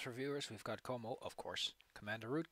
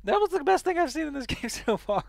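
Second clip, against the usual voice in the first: laughing loudly while talking; cracking up at the game; 15 dB louder than usual. Real, not acted.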